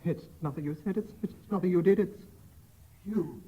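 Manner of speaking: soft, cold murmur; quiet, low and deadpan; disguised voice. Acted. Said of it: "read this in a disguised voice".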